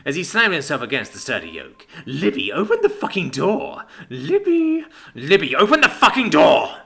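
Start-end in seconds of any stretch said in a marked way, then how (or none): 2.0-6.8 raging demand, louder and higher at her name; furious shouting. Acted. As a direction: yell through the door, losing it. Pounding on locked door.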